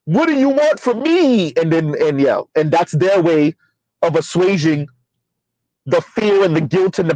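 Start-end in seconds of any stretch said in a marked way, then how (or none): 0.1-1.5 higher, slow imitated whimper; mock crying plea. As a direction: plead like a man breaking down in tears, mockingly. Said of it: "Show, um, Tyrese crying".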